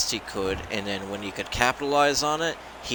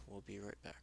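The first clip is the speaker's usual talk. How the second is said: sultry voice; 24 dB quieter, faster than usual. Pretend. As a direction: purr it like a sultry tease. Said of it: "in my sultry voice".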